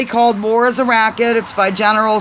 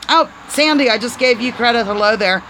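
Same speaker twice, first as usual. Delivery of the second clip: ordinary talk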